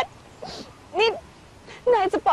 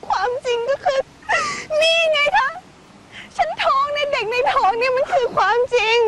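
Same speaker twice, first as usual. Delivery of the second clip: tearful insistence; 5 semitones higher than usual. Acted. Pregnant woman tearfully insisting.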